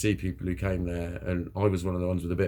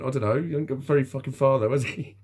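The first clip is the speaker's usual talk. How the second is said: sarcastic; 6 semitones higher, 4 dB louder than usual. Retold or imitated. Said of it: "one of my peers went".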